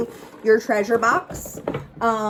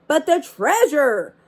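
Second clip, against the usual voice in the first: mild holler; 4 semitones higher, 3 dB louder than usual. Acted. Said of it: "hollered Braidbeard".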